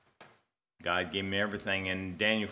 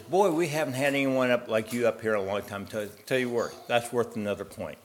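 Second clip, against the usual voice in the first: louder gatekeeper praise; impressed gatekeeper; 3 semitones higher, 4 dB louder than usual. Acted. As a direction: praise him warmly, then give one point.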